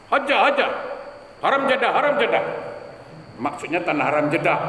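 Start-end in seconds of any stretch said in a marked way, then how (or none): 0.1-2.4 taxi driver calling. Retold or imitated. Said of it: "cakapnya kan lepas itu".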